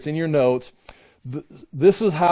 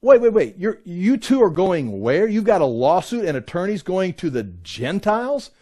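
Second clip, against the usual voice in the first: incredulous Paul; 4 semitones higher than usual. Retold or imitated. Paul scolding believers who sue each other, incredulous and raised. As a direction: stop them short, astonished. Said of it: "And Paul's saying".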